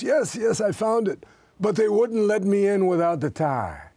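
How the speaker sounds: hammed-up soldier admitting defeat; dejected soldier. Soldier answers in punchline.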